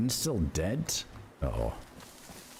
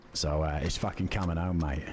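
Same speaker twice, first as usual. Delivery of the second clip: mock London accent; 3 semitones lower than usual. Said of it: "It's trying to be London".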